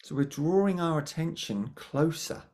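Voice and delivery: calm, unhurried guiding voice with long pauses; guided meditation. Acted. Meditation teacher guiding attention to the breath, calm guiding voice. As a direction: gently lead the listeners inwards, pausing between phrases.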